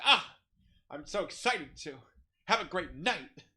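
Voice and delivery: flamboyant, gushing diva; exaggerated theatrical delight. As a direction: gush high and loud in a mock diva voice. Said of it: "there's a flamboyance to it".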